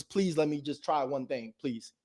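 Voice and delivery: soft, slow begging plea; pleading. Shown as a demonstration. Begging the lender quietly for one chance, soft and slow pleading. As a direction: beg quietly like you need it.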